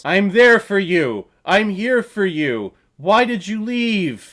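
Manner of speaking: hammed-up melodrama, high and slow; dramatic exclaiming. Mocking a film's dramatic scene, overwrought exclaiming. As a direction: draw out each plea, high and overacted. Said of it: "dramatic scene between two people and someone exclaims".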